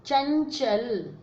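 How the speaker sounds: चंचल said very slowly, the nasal drawn out; slow demo word. Shown as a demonstration. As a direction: stretch चंचल syllable by syllable. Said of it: "है ना, चं".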